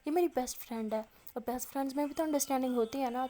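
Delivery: mildly indignant retort; acted, understated annoyance; retold anger. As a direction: argue back with a touch of temper. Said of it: "عالیہ غصے سے کہتی".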